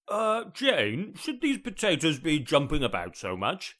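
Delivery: called out high, a touch worried. Acted. Sean calling to his wife about the boiling potatoes, mildly concerned. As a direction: call to the next room, a little anxious. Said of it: "Sean raised his voice in a mildly concerned way".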